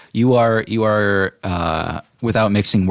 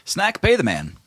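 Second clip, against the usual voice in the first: high bossy genie; 11 semitones higher than usual. Acted. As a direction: order it pitched up. Genie ordering Snack.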